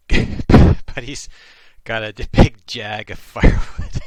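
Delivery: loud, laughing yokel drawl of "got a big jag of firewood"; broad rural Canadian accent, very loud and laughing; thick Carleton County dialect. Shown as a demonstration. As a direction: ham up the backwoods dialect, cracking up. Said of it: "I used to actually talk like this".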